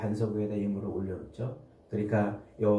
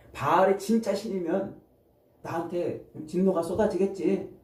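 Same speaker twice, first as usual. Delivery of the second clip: higher-pitched, confident challenge; bold; 5 semitones higher than usual. Acted. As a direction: act out Gideon's bold retort. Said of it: "담대하게 뭐라고 그래요?". (높은 음으로 담대하게 맞받는 말투)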